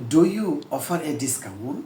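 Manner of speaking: very slow, each word apart; slow, plain classroom English; slow simple English. Shown as a demonstration. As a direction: say it slowly the easy way. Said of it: "আস্তে আস্তে বলেছি".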